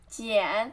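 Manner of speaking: 简 dipping low in third tone. Shown as a demonstration. Teacher breaking down resume, low dipping tone on 简. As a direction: let 简 sink low before it lifts. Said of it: "third tone".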